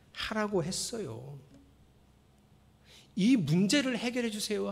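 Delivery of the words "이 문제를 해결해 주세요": worried pleading prayer. Shown as a demonstration. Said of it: "이렇게 기도하지 말고".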